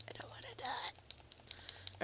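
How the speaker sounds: slow, hushed whispery whine; mock whimper. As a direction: whimper it very softly, drawn out. Whimpering at low health.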